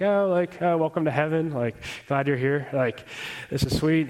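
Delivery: a hint of a cheery receptionist welcoming you in; bubbly secretary angel. Youth speaker retelling Alistair Begg's story voices the welcoming secretary angel, lightly bubbly. Angel greets thief in heaven.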